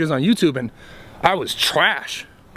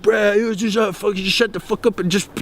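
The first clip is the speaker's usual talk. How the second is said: mocking commenter; 2 semitones higher than usual. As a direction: toss it off like an impatient commenter. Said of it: "you're gonna comment like".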